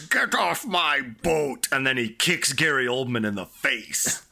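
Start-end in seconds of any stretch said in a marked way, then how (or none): 0.0-1.7 slow, higher mock Dutch demand; Dutch accent. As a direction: order them off in a comic Dutch accent. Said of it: "This is how all Dutch people talk".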